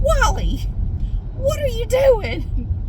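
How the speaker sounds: calling the cat in a very high voice; high-pitched pet talk. Retold or imitated. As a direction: coo a drawn-out question to a pet.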